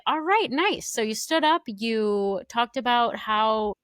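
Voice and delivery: high, loud sarcastic host voice; mock TJ. Podcaster imitating TJ mocking a player, high and loud. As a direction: needle him like a sarcastic host. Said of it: "T J is like".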